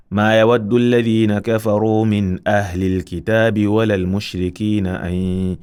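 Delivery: measured Quranic chant; Quran recitation. Shown as a demonstration. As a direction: recite with Tajweed. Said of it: "we read it this way".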